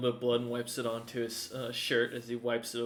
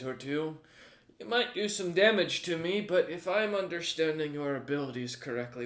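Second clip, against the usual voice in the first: menacing warlord. Acted. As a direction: threaten with cheerful relish. Warlord continues threatening.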